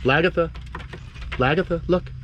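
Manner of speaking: high sing-song call to a pet. Real, not acted. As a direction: coax her over, high and bright. Calling lizard to food.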